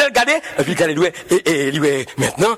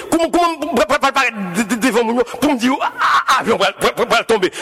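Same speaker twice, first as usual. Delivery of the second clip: mock stutter. Pilot stammering at his chief, a light mock stutter. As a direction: repeat each word, tripping on it. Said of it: "chef, là, t'es bégé".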